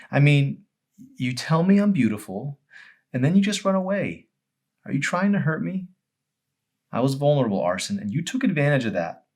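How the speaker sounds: voiced as Emery, upset and accusing; hurt accusation. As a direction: push him to admit he hurt her. Hurt girl confronting Arson.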